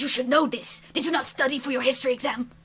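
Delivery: puffed-up scolding, rushed at the end; huffy lizard. Acted. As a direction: scold like an indignant little lizard. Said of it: "he puffs, he says".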